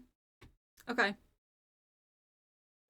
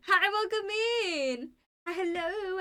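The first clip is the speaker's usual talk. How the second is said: much higher, slower cutesy hi; squeaky high greeting; 8 semitones higher than usual. Real, not acted. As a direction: greet them in a squeaky cute voice.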